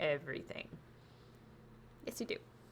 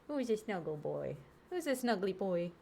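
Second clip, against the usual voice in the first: cute pet voice. Real, not acted. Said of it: "when my pet voice comes out".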